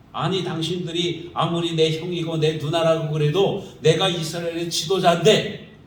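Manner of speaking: imagined brother snapping back at his scolding siblings; indignant retort. Retold or imitated. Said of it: "하면서 오히려 대들을 수도".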